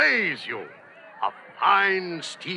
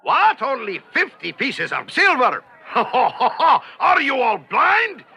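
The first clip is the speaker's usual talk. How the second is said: mock outrage; 3 semitones higher, 3 dB louder than usual.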